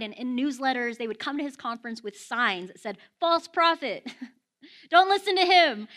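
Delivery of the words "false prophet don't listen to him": loud, high heckler's call; mock-accusing shout, raised in pitch; mock protest shout. Protesters' signs voiced as shouts.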